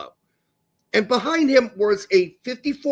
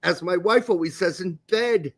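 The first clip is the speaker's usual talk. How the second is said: lightly put-on posh English accent, snobby; posh Englishman; 2 semitones higher than usual. Host reads out a snobby public response, mock posh English. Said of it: "I had to read it as a posh Englishman".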